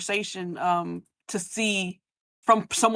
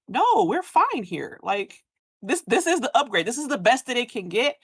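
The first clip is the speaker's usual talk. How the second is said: mock contented villager; 5 semitones higher than usual. Playing a clan member refusing the offer of freedom. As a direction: insist lightly you're fine here.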